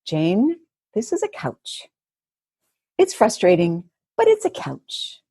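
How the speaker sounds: calming her own frustration over a couch; talking herself down. Retold or imitated. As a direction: soothe yourself about a silly couch. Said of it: "And I was just thinking".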